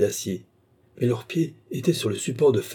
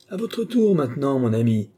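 hissed challenge; 5 semitones higher, 4 dB louder than usual. Acted. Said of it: "siffla-t-il".

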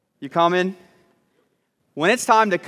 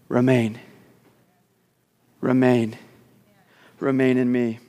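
lower, measured words with pauses; solemn scripture quote; 6 semitones lower than usual. Acted. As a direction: let each "remain" fall and settle. Quotes Jesus slowly, solemnly.

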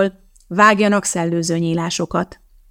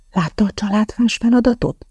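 ordinary delivery

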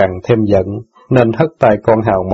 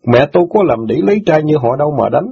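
higher, lightly voiced teen boy, hurt and reproachful; indignant boy; 5 semitones higher than usual. Son reproaches sister for forgetting jailed father, lightly voiced. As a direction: scold her like a wounded son.

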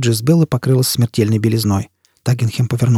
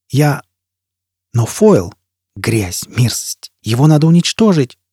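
rising to a shriek; 3 semitones higher, slower than usual. Acted. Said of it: "Голос Престейна перешёл в визг и сорвался".

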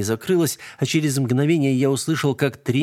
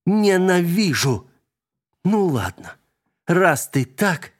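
slow, higher menacing threat; 8 semitones higher, slower than usual. A narrator's reading. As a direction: drag it out as a threat. Vika threatens the spirit. (угрожающе, медленно)

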